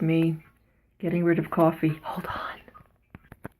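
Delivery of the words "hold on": distant unvoiced whisper; faint whisper. Real, not acted. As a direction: whisper from away from the mic. Whisper while off camera.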